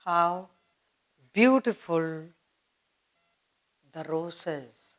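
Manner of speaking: softly admiring, dropping to a hush on "roses". Shown as a demonstration. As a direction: breathe out the words "How beautiful the roses" in wonder. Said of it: "You're admiring the rose".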